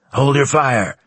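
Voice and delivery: loud commanding order; booming command. Acted. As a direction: boom the order to cease fire. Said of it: "boomed a command in our headsets".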